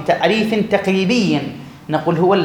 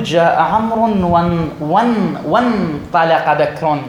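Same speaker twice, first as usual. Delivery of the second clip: slow careful demo; slower than usual. Shown as a demonstration. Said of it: "في منتصف الكلام تحذف هذه الهمزة".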